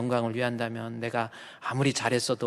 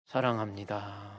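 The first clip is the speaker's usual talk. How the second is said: soft retold; 5 semitones lower, 7 dB quieter, slower than usual. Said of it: "마지막이 뭔 줄 아세요".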